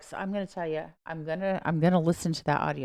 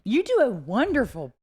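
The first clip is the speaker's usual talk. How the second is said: drawn-out British voice with swooping pitch; British proper accent; 5 semitones higher, 4 dB louder, slower than usual. Pretend. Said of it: "British proper voice".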